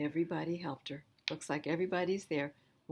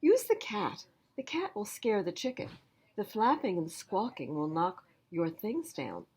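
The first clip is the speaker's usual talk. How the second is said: higher, louder busy sister; sister's voice; 4 semitones higher, 3 dB louder than usual. Acted. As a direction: call it out mid-chore. Sister gives advice.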